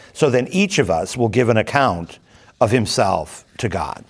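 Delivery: steady, measured Bible reading; scripture reading. Acted. Teacher reading scripture aloud to the class in an even, measured voice. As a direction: read the passage aloud to the class, evenly.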